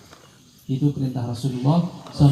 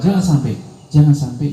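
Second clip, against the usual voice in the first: louder, insistent jangan sampai; emphatic warning; 5 dB louder than usual. Real, not acted. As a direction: press the warning hard. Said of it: "repeated warning". (peringatan keras dan tegas)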